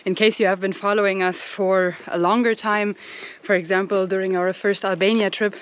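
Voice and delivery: talking while out of breath; breathless from walking uphill. Real, not acted. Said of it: "sorry, I'm so out of breath".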